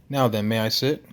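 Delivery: put-on big man with a Russian accent; Nikolai. Huge Russian asking to join the table, Russian accent. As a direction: ask politely in an amateur Russian accent. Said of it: "his Russian accent thick enough".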